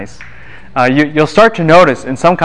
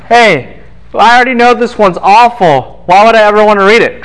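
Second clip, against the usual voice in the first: mock whining student; 8 semitones higher, 4 dB louder than usual. Mocking student's complaint, raised.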